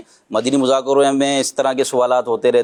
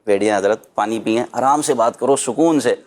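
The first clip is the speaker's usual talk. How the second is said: soothing calm; 2 semitones lower than usual. Retold or imitated. Calming an angry relative, gently soothing. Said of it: "بیٹھ کر پیار محبت سے".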